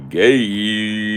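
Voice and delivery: high loud yelp of gay; mocking high yelp; mock shout.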